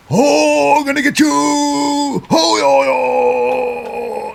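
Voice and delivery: high shrieking wrestler yell; high mock yell. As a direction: yelp it high like a flying wrestler. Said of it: "With the old".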